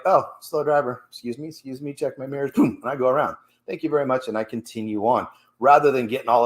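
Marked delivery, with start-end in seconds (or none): 0.0-4.3 polite patience. Retold or imitated. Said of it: "So now I'm like".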